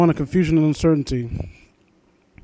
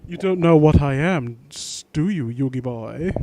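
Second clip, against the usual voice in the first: growled; 3 semitones lower than usual. Acted. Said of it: "The creature growled once more".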